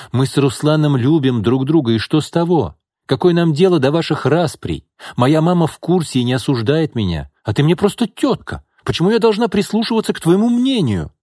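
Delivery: high, defiant answer rising to a cry. A narrator's reading. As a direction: throw it back in her face. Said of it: "с вызовом ответила Катя". (с вызовом, всё громче)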